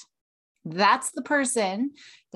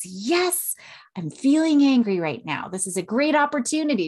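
eager welcome of anger; 3 semitones higher, 3 dB louder than usual. Shown as a demonstration. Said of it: "we might even look forward to our feelings".

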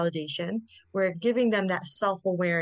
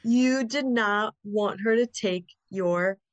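slow validating; slower than usual. Shown as a demonstration. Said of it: "I think".

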